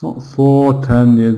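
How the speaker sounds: "for" sounded like the number four; full vowel for. Shown as a demonstration. Teacher correcting learners, "for" said like four. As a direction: give "for" a full, unreduced vowel. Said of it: "because four is a number".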